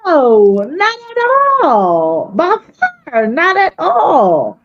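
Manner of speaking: muffled voice through a bad mic; sounding like it's underwater. Real, not acted. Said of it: "you always sound like you're underwater".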